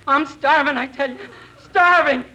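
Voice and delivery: hammed-up starving prospector; old prospector voice. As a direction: plead like a starving old miner. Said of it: "You're going to be an old prospector".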